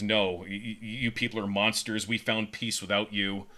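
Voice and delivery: flat, even refusal. Retold or imitated. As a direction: say it flatly and coldly. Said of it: "she flatly says".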